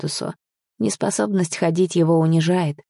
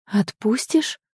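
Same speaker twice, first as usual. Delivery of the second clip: raised-pitch steely question; controlled, challenging question; iron tone; 5 semitones higher, slower than usual. Acted. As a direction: ask it with cold restraint. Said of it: "Это я произнесла железным тоном".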